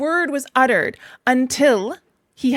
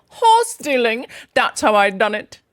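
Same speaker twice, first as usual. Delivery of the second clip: loud proud boast; 5 dB louder, slower than usual. Acted. Toad boasts loudly.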